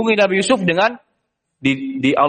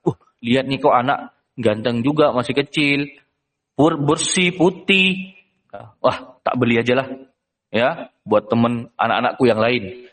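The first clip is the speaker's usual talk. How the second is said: official musing; 5 semitones lower than usual. Acted. Egyptian official eyes the boy.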